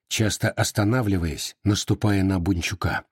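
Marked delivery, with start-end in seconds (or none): none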